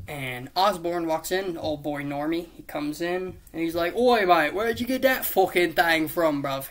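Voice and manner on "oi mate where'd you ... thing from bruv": loud, hammed-up British "bruv" accent; put-on British accent. Osborn walks in on the kids, hammed-up British accent. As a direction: play him as a mock British geezer. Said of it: "I'm just doing accents to change it".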